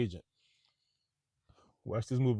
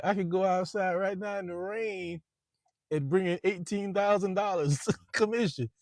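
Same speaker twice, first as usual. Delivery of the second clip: bragging boss; 8 semitones higher than usual. Retold or imitated. Baldwin bragging, voiced.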